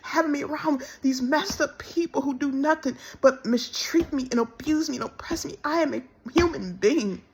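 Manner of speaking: tired, tearful prayer to God; pleading to the Lord, worn out and hurt; weary plea. Real, not acted. Woman tells viewers how she begged God, in a tired tearful plea. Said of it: "And I'm said".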